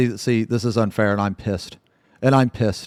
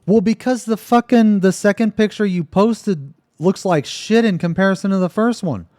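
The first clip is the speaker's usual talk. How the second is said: high-pitched, agitated disbelief; incredulous; 10 semitones higher, 4 dB louder than usual. Real, not acted. Friend questions why the pictures differ, incredulous. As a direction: demand an explanation, voice way up high.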